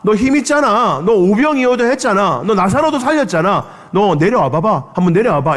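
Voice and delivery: high, sneering crowd taunt; a crowd jeering at the cross; mocking taunt. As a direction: goad him to come down. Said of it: "이렇게 말했다는 거예요".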